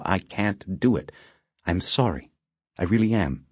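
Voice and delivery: lightly voiced woman, firm refusal; a hint of a guarded agent saying no; understated female detective, apologetic but firm; Wish's voice. Narrator voices Wish.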